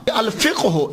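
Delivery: "الفقہ ہو" as al-fiq-hu; correct pronunciation. Shown as a demonstration. Lecturer confirming from the dictionary, "الفقہ ہو" as al-fiq-hu. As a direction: join a closed q to hu in "الفقہ ہو". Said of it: "اسے بولتے ہیں".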